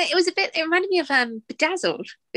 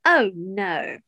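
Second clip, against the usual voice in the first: lower, understated "oh no"; unbothered dismay; 4 semitones lower than usual. Retold or imitated. Co-host imitating the villain as she loses, underplayed dismay. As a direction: barely react to losing. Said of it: "she's just sort of like".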